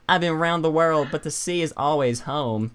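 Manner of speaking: half-hearted pirate voice, Forrest Gump-ish; lightly voiced pirate. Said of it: "that's like Forrest Gump".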